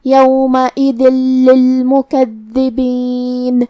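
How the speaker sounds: یومئذ merged straight into للمکذبین with a doubled lam and no nasal hum; idgham without ghunna. Shown as a demonstration. Teacher demonstrates merging into the lam without ghunna. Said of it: "یہ حکم کو ادا کریں گے".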